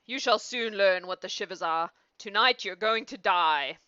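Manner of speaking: a hint of villainous menace; menacing old man. Evil old man threatens boy.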